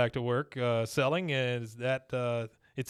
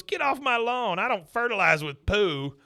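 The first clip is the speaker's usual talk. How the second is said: much higher, indignant mock outburst; mock angry Bill; 8 semitones higher, 4 dB louder than usual. Bill yelling at neighbor on his lawn, mock indignant. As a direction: play Bill snapping back, hammed up. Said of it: "He goes".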